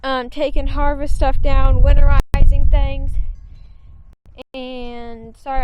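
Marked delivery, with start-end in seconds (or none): 0.0-3.1 out of breath. Real, not acted. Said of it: "I'm a little out of breath".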